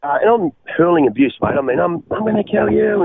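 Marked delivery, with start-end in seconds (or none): 1.8-3.0 retold yell. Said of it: "we were screaming at each other".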